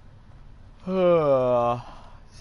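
long, drawn-out sleepy yawn; a genuine tired yawn; real yawn. Real, not acted. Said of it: "that was a genuine yawn".

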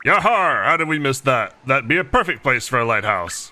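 put-on pirate with Texas accent. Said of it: "I'm mixing up my accents".

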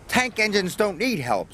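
cross little engine snapping. A narrator's reading. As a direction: snap back, offended. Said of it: "snapped Thomas".

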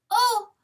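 high, startled "oh"; tiny cry. A narrator's reading. Fawn seeing her wounded father, tiny high cry. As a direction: let out a sudden high little cry. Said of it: "the fawn gave a tiny cry".

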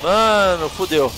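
panicked yelling while fleeing; urgent shouts, running for your life; being chased. Real, not acted. Fleeing enemies, helicopter.

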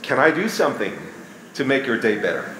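kind sympathetic husband; something nice. Shown as a demonstration. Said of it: "Say something nice like".

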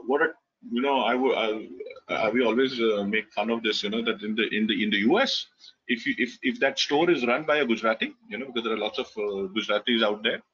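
normal talking voice

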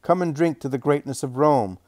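shrill shout. A narrator's reading. Tavern mistress mocks the Hebrew women, a high loud jeering shout. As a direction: screech your contempt at the Hebrew women. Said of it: "she shouts in a shrill voice".

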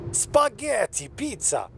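mock Italian accent, high then falling; clumsy Italian accent attempt. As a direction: do a bad, stereotyped Italian accent. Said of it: "how to do an Italian voice".

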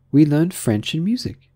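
high Alice voice. A narrator's reading. Alice telling of her lessons, high-pitched.

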